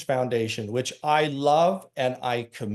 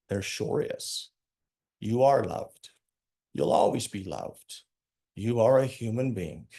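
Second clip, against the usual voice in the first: tender reassurance; 3 semitones lower than usual. Retold or imitated. Comforting a weeping man.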